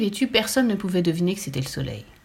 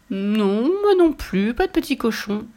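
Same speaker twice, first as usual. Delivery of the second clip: put-on little girl's denial; 3 semitones higher, 4 dB louder, slower than usual. A narrator's reading. Little girl feigning innocence in story. (petite fille qui nie, voix haut perchée)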